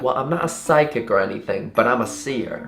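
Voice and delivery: lightly mimicked Southern seer; Southern accent. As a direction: imitate a confiding Southern woman. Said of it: "really bubbly and talkative and Southern".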